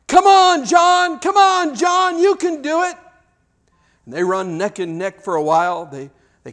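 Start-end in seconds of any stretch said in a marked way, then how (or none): 0.1-3.0 put-on small children's high, loud cheer; root for the underdog at full voice. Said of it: "seem to be cheering for John".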